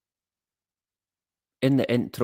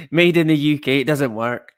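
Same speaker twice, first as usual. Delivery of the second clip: laughing; 3 semitones higher, 5 dB louder than usual. Pretend. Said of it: "repeats punchline laughing".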